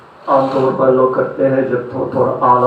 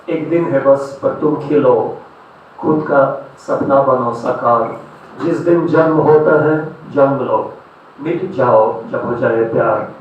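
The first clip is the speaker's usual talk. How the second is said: short verse lines set apart by pauses; poetry recitation. Acted. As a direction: recite a birthday poem line by line. Recites birthday poem.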